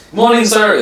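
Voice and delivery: high, loud greeting to a guest; put-on high-pitched welcome; imitated hotel greeting. Hotel staff greet him.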